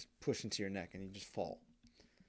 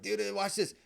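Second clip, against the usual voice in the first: put-on high, loud eager kid voice; show-off kid; 9 semitones higher, 6 dB louder than usual. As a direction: hype up the prank. Kid showing off to friends.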